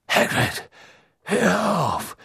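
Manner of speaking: stern command, rising in pitch; called out sharply. A narrator's reading. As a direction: order him to stop. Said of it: "rief Dumbledore mit blitzenden Augen".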